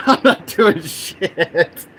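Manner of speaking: emphatic dragged-out protest; retold refusal. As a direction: stretch out the acted refusal. Retelling refusal to move.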